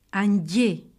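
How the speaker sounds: "Andier" with a softened dy sound; wet, palatal dd in "Andier", like dyé; palatal double consonant. Shown as a demonstration. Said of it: "produisent un son mouillé". (« Andier » : son dd mouillé)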